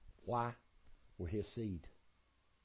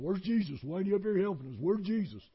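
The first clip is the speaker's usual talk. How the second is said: shouted high, panicked cries; panicked hollering; 9 semitones higher, 9 dB louder than usual. Retold or imitated. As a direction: holler for help over the storm. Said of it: "Everybody's hollering".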